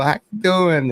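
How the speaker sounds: high, playful coo at a pet; baby talk to monkey. Retold or imitated. Man greeting an excited pet monkey, high cooing. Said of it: "I'd clap and come over".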